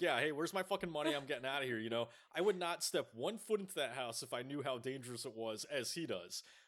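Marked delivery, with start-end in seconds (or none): 0.0-1.8 put-on screaming holler, as if from a distance. Imagining standing outside the house demanding money: pretend screaming. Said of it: "and then I'd be screaming".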